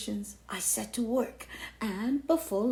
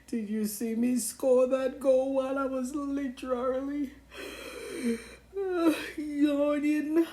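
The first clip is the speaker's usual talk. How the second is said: bragging; 4 semitones higher than usual. Acted. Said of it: "I'd brag nonstop".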